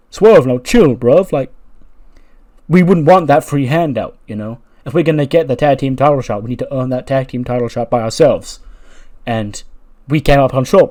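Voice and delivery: loud heated wrestler rant. Retold or imitated. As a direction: shout it out, wrestler style. Top Dollar acted, bruv.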